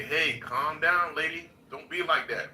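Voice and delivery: slow, drawn-out mock scolding of a lady; man on a voice chat acting out how Cogito should hush a lady, slow; mock calm-down. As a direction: talk her down slowly. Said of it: "we need you as a staunch woman advocate to say".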